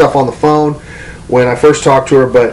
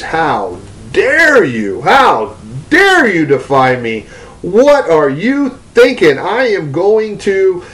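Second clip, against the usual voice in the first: slow, weighty retold rebuke, climbing higher; mock furious rebuke; 3 semitones higher, slower than usual. Preacher voicing God rebuking the demon, slow mock fury. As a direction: thunder it out like an offended father, slowly. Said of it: "the father is just yelling at this demon".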